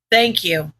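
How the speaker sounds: a touch of defeat in a low reply; tired and defeated. A narrator's reading. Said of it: "His voice sounded tired and defeated".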